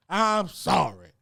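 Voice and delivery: I'M SORRY stretched long and slow; drawn-out apology. Real, not acted. Comic refuses to believe the designer is real, drawn-out apology. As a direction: draw out I'M SORRY at half speed.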